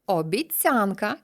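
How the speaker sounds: slow, Обіцянка stressed on ця; drawn-out обіцЯнка. Shown as a demonstration. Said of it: "тому що обіцяти". (повільно, наголос обіцЯнка)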